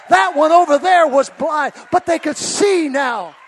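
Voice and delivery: loud, rising preacher's cry on "rivers"; full-force preaching. Acted. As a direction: preach it to the rafters. Building preaching vision of healings.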